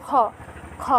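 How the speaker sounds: খ said simply from the back of the throat, no pressure; relaxed letter demo; plain unpressed kha. Shown as a demonstration. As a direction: let খ out easily, no push. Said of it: "কোনো চাপ প্রয়োগ করার প্রয়োজন নেই, একদম সাধারণভাবে".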